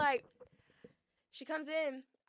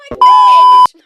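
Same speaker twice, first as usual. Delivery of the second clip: high, loud bark of disbelief; outraged yell; 28 dB louder than usual. Real, not acted. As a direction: blurt it out in outrage. Outrage at press charges.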